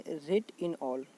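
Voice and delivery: rate in all said slow and deliberate, every word apart; slow, spelled-out trick phrase. Shown as a demonstration. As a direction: stretch out "rate in all" so it sticks. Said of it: "बोला जाता है". ("rate in all" को धीरे-धीरे, हर शब्द अलग करके बोलें)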